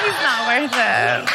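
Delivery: slow, emphatic comic shout; hammed-up defiant declaration; mock indignant echo. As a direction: act out worked-up agreement. Echoing the stranger in heated agreement.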